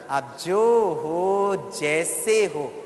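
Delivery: slow, drawn-out loving words; प्यार भरा आशीर्वाद. Shown as a demonstration. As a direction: say it slowly as if gazing at your child. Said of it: "बच्चे को देखकर कहना". (प्यार से, धीरे-धीरे खींचकर)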